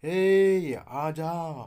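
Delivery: long, loud, high call, "ए, आ जा"; demonstrating a drawn-out call to someone far away. Shown as a demonstration. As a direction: shout across to someone, vowels stretched. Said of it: "किसको तो बुलाते समय हमें कहते हैं ना".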